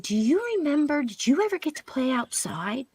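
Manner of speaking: put-on whispered, tender question to a child; gentle whisper.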